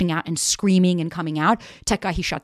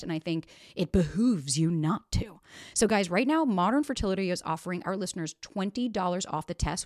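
upbeat sponsor read, softer and lilting; podcast ad read; 7 dB quieter than usual. Acted. Host pitching a fertility test to listeners, smooth ad read. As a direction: read the sponsor spot, spelling out the offer.

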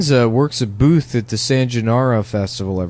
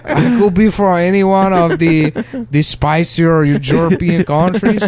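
higher, hammed-up southern European accent; mock Spanish accent; 4 semitones higher than usual. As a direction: put on a thick, vague Spanish accent. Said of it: "a Spanish guy".

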